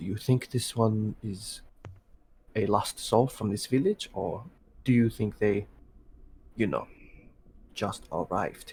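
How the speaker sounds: secretive whispered aside. A character leans in to a companion about a stranger, whispering. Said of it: "leans in uh and like whispers to Maeve".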